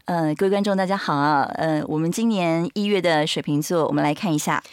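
lightly voiced astrologer host; a hint of the TV astrologer; Tang Qiyang impression. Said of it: "模仿新国师". (轻轻模仿唐启阳的主持腔)

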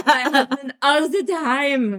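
hammed-up slow French accent. Wife playing at the Dauphin's voice, slow French accent. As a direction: laughingly put on a French accent. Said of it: "excuse to do that accent myself".

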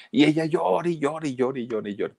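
hammed-up tearful singsong; mock crying. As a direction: drone it on like endless crying. Narrator mimics endless childish crying.

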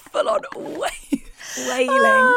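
a short imitated wail, rising sharply high; half-joking wail; mock wail. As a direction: show the wailing with a quick high cry. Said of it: "I was wailing so loud".

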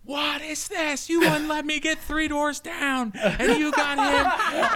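very high, drawn-out mock wail; mock outraged brother. Older brother complaining to dad about an album, mock outrage.

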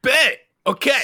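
high loud placating babe; bro voice. Acted. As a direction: soothe her like a party bro. Brody placating Becky.

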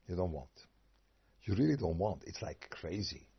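ordinary talk, nothing marked

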